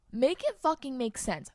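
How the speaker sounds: pissed off. Real, not acted. Podcaster ranting about stagnant wages, pissed off. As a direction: demand it in real exasperation. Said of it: "it pisses me off so much".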